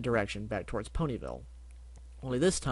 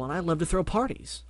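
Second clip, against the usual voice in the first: Barry Bubble; 5 semitones higher than usual. Acted. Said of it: "Barry introduces himself".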